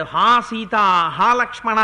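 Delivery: mild mock cry for help; retold loud cry. Mareecha cries out to Sita and Lakshmana, mild mock shout. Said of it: "గట్టిగా కేకేశాడు".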